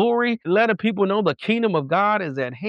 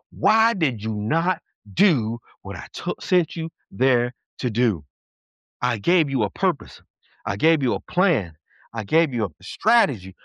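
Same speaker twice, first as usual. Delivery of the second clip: low, deliberate questioning from the judgment seat; measured, lightly voiced divine judge; God; 5 semitones lower than usual. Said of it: "God's gonna ask you two questions".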